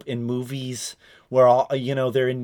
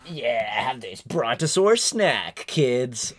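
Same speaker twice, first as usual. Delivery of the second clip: cheesy ad voice; much slower than usual. Retold or imitated. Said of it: "be like".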